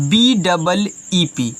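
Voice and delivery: letters spelled out slowly, one by one; slow spelling. Shown as a demonstration. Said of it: "लिखा है आपका बच्चों". (अक्षर धीरे-धीरे बोलना)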